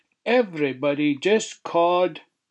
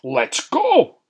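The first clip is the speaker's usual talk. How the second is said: fidgety eager; 6 semitones higher, 4 dB louder than usual. Acted. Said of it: "fidged Johnny".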